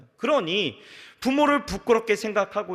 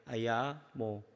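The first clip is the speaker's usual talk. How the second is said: soft, lower gentle asking; gentle respectful; 7 semitones lower, 8 dB quieter than usual. Retold or imitated. A father asking his disabled child softly, gently. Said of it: "굉장히 존중해 줍니다".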